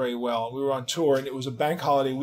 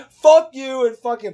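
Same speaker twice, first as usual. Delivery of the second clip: high, loud, incredulous "Fuck you and fuck him"; mock echoed curse; 9 semitones higher, 8 dB louder than usual. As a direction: throw "Fuck you and fuck him" back in shock. Mark echoing her curse.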